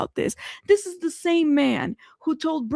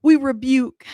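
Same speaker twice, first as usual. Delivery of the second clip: high, drawn-out playful protest; hammed-up rejection in a raised voice; mock refusal; 3 semitones higher, much slower than usual. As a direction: refuse it dramatically, pitched up. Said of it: "I said, "No".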